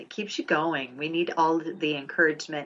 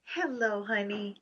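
faint and small, like through a wall; distant and tiny voice; far away; 5 semitones higher, 6 dB quieter, slower than usual. Real, not acted. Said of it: "Oh, you sound so far away".

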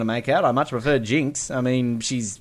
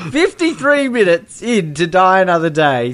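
high, louder theatrical rock-star voice; a famous rock singer's voice; 6 semitones higher, 4 dB louder than usual. Shown as a demonstration. Host repeats the timestamp in a rock singer's voice. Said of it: "repeats the timestamp in voice".

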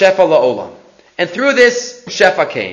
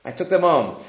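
very soft, low sheepish admission; acted embarrassed mumble; 5 semitones lower, 10 dB quieter than usual. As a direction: confess it shamefacedly under your voice. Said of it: "So embarrassed".

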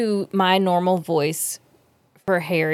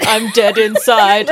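flat man voice; 6 dB louder, slower than usual. Pretend. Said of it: "men don't have inflection".

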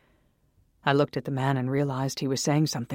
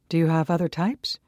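eager; 3 semitones higher, 4 dB louder than usual. Acted. Eager customer asks.

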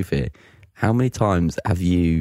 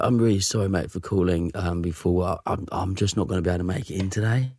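Cockney sick caller. Acted. Employee tells boss he can't come in, apologetic mild Cockney. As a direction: excuse yourself meekly in mild Cockney. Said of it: "got this Phil Mitchell Cockney accent".

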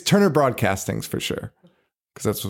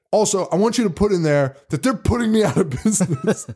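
Chocolate Chip Charlie; 5 semitones higher than usual. Retold or imitated. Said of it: "And he's like".

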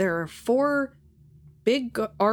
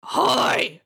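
high put-on voice; 3 semitones higher, 4 dB louder than usual. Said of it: "can you make your voice sound different".

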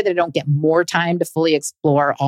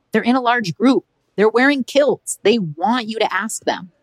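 higher, slower, teasing push from a friend; friend egging her on; 5 semitones higher than usual. Retold or imitated. Josie egging her on to ask the kilted Scots, higher and slower. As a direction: coax her like a daring friend.

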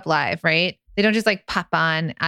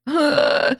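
dread groan; 8 semitones higher than usual. Acted. Voicing listeners' dread of selling live.

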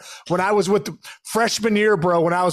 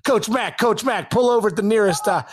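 urgent call over radio; 3 semitones higher than usual. Retold or imitated. Coach calling other van on mic.

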